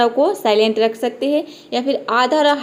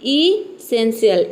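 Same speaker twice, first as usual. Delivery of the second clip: slow model take; much slower than usual. Shown as a demonstration. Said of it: "आप भी हमारे साथ बोलिए".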